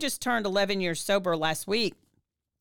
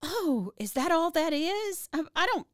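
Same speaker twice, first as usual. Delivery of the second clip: surprised realization; 9 semitones higher than usual. Retold or imitated. Woman realizing why she's upset, surprised. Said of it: "I remember just going".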